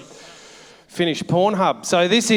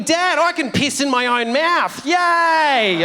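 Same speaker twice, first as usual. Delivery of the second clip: put-on excited kid; 7 semitones higher, slower than usual. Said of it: "your kids running in".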